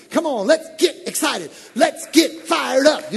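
hype-up call. Retold or imitated. Pastor acting a friend who hypes you up, loud. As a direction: pump up the crowd. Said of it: "people that'll get excited for you".

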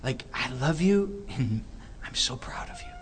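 soft, hushed words of love to a son; tender voice of God. Retold or imitated. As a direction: speak it gently, like a proud father. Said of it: "Just saying".

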